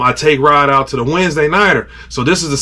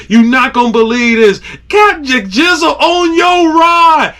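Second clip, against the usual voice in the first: gleeful boast; 8 semitones higher than usual. Retold or imitated. Angler telling Captain Jizzle about the catch, gleeful. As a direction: crow it to a buddy. Message to friend.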